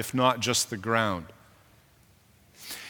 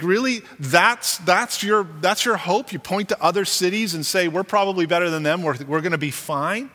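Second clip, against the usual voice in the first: mock incredulous; 4 semitones higher than usual. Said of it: "he looks at these fat cat leaders and he says".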